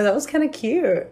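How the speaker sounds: raspy chain-smoker voice; hoarse voice. Real, not acted. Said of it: "I sound like a chain smoker".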